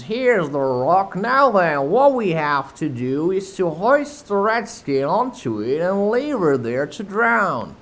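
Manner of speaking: high, loud rough pirate giving orders. Acted. Smee telling Starkey what to do, gruff pirate. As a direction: boss the crew about the captive. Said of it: "the Irish voice that was Smee's".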